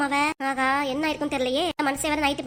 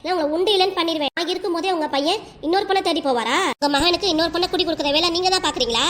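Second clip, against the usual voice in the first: raised, accusing voice at mother-in-law; angry confrontation; 2 semitones higher than usual. Acted. Daughter-in-law angrily accusing her mother-in-law of the affair. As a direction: storm in and accuse.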